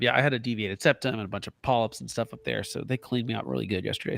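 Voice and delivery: blocked nose after surgery; weak after surgery. Real, not acted. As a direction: speak through a stuffed-up nose. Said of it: "which is why I sound like this".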